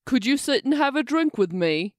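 put-on British gentleman's invitation; attempted British accent. Client invites the waitress for a drink, attempted British accent. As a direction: offer it in an amateur British accent. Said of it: "my fucking British accent".

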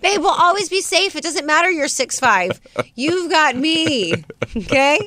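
high, laughing reassurance; mock reassuring. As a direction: sweet-talk him playfully.

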